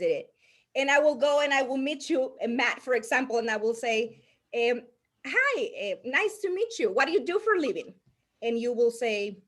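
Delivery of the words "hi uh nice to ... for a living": lightly acted greeting, pitched up; demonstrating a learned prospecting line, higher voice; memorized networking script. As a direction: recite a rehearsed small-talk opener, voice lifted. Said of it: "I learned the prospecting scripts".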